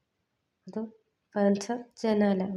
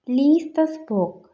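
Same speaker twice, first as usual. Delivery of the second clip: slow, careful and louder, stressing ലീസ്; slow teaching demo; 5 semitones higher, 5 dB louder, slower than usual. Shown as a demonstration. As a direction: spell it out slowly for learners. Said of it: "എന്ന് പറഞ്ഞാൽ". (പതുക്കെ, വ്യക്തമായി)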